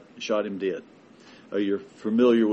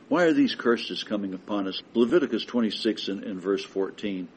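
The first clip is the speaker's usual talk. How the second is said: usual speaking voice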